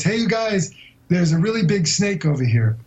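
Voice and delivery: strained calm, starting high and settling; mock-calm warning. Author retelling his jungle snake warning to the group, feigned calm. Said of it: "I said in a very calm voice".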